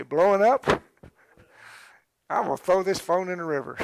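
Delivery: loud, high, fast laughing rant; frazzled laughing outburst. Retold or imitated. Man whose phone keeps ringing, loud laughing rant. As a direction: blow up and laugh it off.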